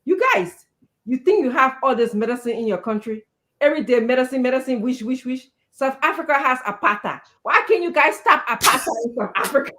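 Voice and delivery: lightly imitated Ghanaian accent, teacher scolding the class; a hint of a stern Ghanaian teacher. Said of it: "his Ghanaian accent, I'm gonna try".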